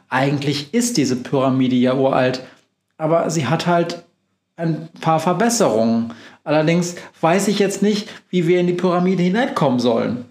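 a hint of a brisk witch, quick; lightly voiced witch. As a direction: rattle it off as the cheerful witch. Befana voiced in story.

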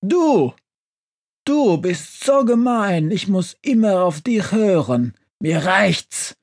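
high-pitched, angry tirade; bellowing outburst. A narrator's reading. Stove finally rebelling against the witch, bellowing angrily. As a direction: burst out crying foul in a high voice. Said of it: "Plötzlich brüllt der Ofen los".

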